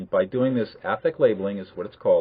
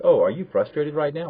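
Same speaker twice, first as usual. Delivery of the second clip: "Oh, are you frustrated right now" asked with a higher, rising lilt; questioning tune; 4 semitones higher than usual. Shown as a demonstration. Teacher showing the question not to ask, "are you frustrated" in a higher questioning tune. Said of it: "not to ask a question like".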